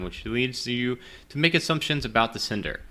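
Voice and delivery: usual speaking voice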